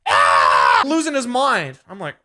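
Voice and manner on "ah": loud low mock scream; imitated scream. Imitating the homeless man screaming at him. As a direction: let out a raw yell. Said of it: "screaming, like".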